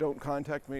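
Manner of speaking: ordinary talk, nothing marked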